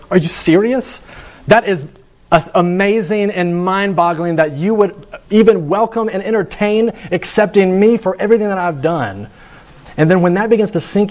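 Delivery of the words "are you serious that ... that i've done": higher, overwhelmed wonder; a hint of an amazed sinner; astonished disbelief. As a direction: sound stunned that you're welcomed. Believer voiced overwhelmed by grace.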